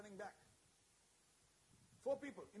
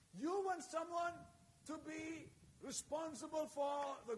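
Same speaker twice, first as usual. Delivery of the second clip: fervent preaching. Acted. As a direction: pour it out like a rising altar call. Preaching Hannah's prayer at full force.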